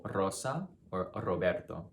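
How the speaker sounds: Rosa and Roberto with a light rolled R; slow, light roll on the first R. Shown as a demonstration. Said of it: "a light roll".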